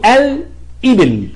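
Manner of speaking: الإبل with a clearly sounded l, "al-ibil"; moon lam. Shown as a demonstration. Teacher showing the moon lam, l sounded in الإبل. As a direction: slowly separate the l of الإبل before the hamza. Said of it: "تبقى اللام قمرية ساكنة".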